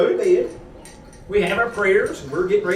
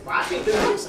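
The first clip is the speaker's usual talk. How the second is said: breathy aside; 13 semitones higher than usual. Retold or imitated. His own frustration retold.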